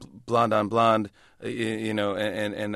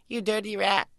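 higher, clipped gangster growl; James Cagney impression; 8 semitones higher than usual. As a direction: snarl it like a 1930s movie gangster. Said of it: "do James Cagney".

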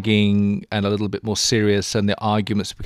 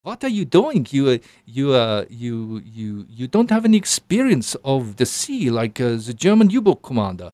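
German sea captain. Retold or imitated. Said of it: "old German sea captain".

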